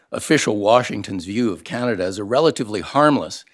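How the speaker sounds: usual speaking voice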